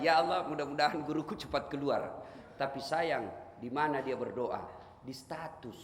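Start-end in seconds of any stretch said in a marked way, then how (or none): 0.1-2.3 mock prayer. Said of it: "berdoa lagi".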